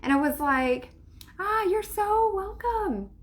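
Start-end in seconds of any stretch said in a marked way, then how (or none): 1.4-3.1 sarcastic thanks. Retold or imitated. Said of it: "I was so frustrated at first".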